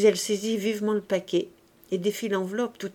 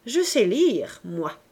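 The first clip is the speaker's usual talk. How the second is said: proud boasting; slower than usual. Acted. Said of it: "ce bonheur de se vanter".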